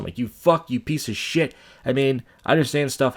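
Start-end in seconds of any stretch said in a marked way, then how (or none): 0.2-1.6 high-pitched retold swearing; retold cursing. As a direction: replay cursing someone in your head. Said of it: "and I'm cursing".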